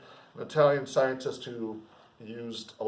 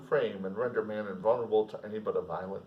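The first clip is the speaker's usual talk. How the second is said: measured literary reading; steady classroom reading of a novel; novel read aloud; 3 semitones lower than usual. Acted.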